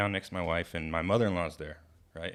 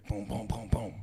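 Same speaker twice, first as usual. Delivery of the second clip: spoken booms of a knock; evenly spaced boom sounds; imitated door pounding. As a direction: mimic heavy pounding on a door. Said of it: "And then I hear it".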